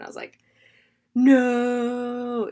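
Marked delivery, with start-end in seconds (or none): 1.1-2.5 long, drawn-out, louder and higher cry; re-enacted disbelief. Viewer recalling first hearing a movie line, re-enacted disbelief. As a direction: stretch it out in mock disbelief.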